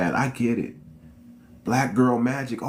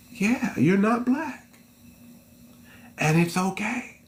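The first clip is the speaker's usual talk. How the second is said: mocking agreement; 7 semitones higher, slower than usual. Mocking reply, high and slow.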